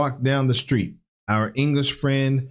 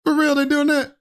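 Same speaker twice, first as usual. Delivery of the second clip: surprised; 13 semitones higher than usual. Real, not acted. Shocked at the accent.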